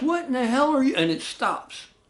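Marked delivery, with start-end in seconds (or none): 0.0-1.0 very high-pitched shouted yell. Retelling how a mother ran to the staircase: imitating someone yelling. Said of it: "as she's yelling down to us".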